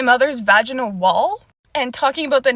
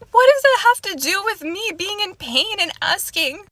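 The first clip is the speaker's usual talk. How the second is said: indignant; 6 semitones higher than usual. Real, not acted. Indignant at doctor's remark.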